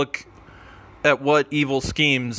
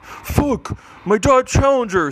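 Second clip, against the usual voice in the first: high, loud yell at the damage; angry shout; 11 semitones higher, 4 dB louder than usual. Acted. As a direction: shout it out in shock. Car shot by laser.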